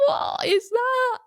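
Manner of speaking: loud, high-pitched squawk of disbelief; incredulous outburst. Retold or imitated. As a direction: blurt it out high, stretching the words in disbelief. Acting out baffled shock at accent.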